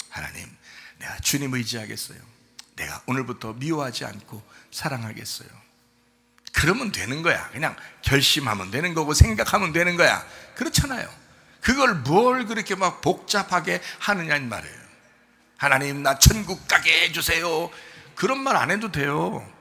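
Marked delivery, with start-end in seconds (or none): 0.1-5.5 low, soft, unforced vow to God; simple quiet prayer. Shown as a demonstration. Models a simple, calm prayer. 15.6-17.7 drawn-out singsong begging; hammed-up imitation of beseeching God; mock pleading prayer. Mocks an overwrought prayer for heaven.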